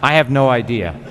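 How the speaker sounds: amused chuckle breaking into the line; laughing. Real, not acted. Counsel laughs at own non-answer.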